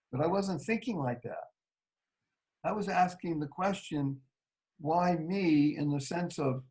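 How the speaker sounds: a patient quietly asking God for his purpose; quiet humble. Real, not acted. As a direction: softly ask what is wanted of you.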